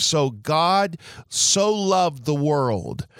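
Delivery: "so" stretched slow and high; slow down and press "so loved the world"; "so" punched as an adverb of degree; stress on so. Shown as a demonstration. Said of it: "It adds emphasis to the verb love".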